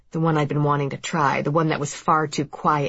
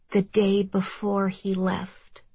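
put-on slow, raised child's voice; thoughtful little boy; 4 semitones higher, slower than usual. A narrator's reading. Boy recalls for his mother when he told Dad, slowly. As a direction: answer slowly, pitched up as a child. Boy answers after thinking.

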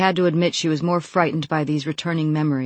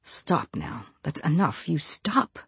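low fierce growl; 5 dB quieter, slower than usual. Acted. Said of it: "low and fierce, almost growling it".

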